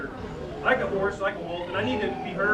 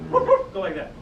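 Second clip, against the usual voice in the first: barking demo; 7 dB louder, much slower than usual. Shown as a demonstration.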